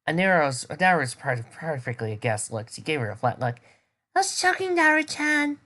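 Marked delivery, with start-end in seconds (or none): 4.2-5.6 playful tease. Acted. Girl's high teasing reply.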